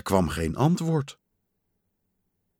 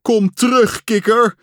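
high, loud cry; raised, desperate calling; pleading call; 11 semitones higher, 7 dB louder than usual. A narrator's reading. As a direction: beg a lost friend to return. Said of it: "riep hij".

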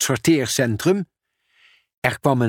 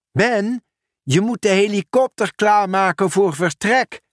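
raised, quick worried postman; hurried Pieter; 8 semitones higher than usual. Acted. Pieter asks Arthur about the bridge, hurried. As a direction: press for an answer.

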